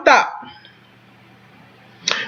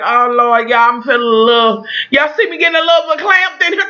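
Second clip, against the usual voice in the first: emotional outburst; faster than usual. Real, not acted. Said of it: "I was all over the place".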